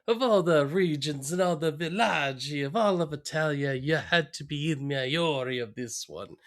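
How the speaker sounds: lightly done fake Italian. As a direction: toss in mock Italian words. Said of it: "they're all fake words".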